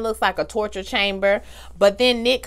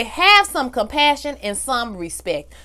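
slow, deliberate, every word weighed; saying it firmly; 3 semitones higher, slower than usual. Retold or imitated. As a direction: lay it down slowly like a lesson. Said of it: "you just wanna say".

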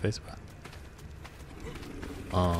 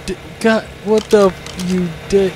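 frustrated yelling; 6 semitones higher, 4 dB louder than usual. Real, not acted. Getting killed in the game.

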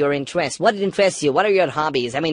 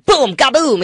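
imitated snap; 6 semitones higher, 4 dB louder, much slower than usual. Shown as a demonstration. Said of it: "suddenly the wire snaps".

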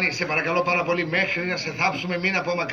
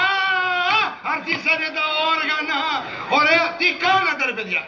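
alarmed surprise; 9 semitones higher, 3 dB louder than usual. Acted. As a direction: dread rising in the voice. Cousin alarmed at news.

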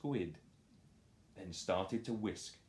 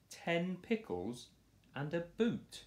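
comic emphasis; 9 semitones higher than usual. A narrator's reading. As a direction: pile up the silly foods. Listing absurd foods.

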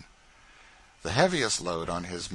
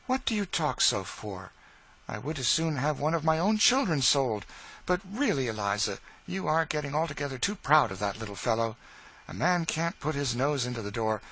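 mistress's voice; 4 semitones higher than usual. Acted. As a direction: tease and reassure a frightened servant. Mistress waves the fear away.

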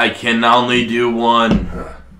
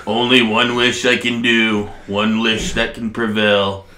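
sleeping ancient god; 3 dB quieter than usual. Acted. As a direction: rumble it out like an ancient dragon. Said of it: "massive dragon".

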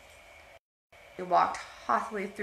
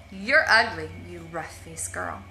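taunting; 2 semitones lower, 6 dB louder than usual. Acted. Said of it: "laughed at her, saying".

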